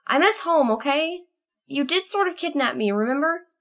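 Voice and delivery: homesick and defensive, pitched high; tearful glare. A narrator's reading. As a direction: protest through tears in a small, high voice. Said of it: "glared at the dragon and wiped another tear".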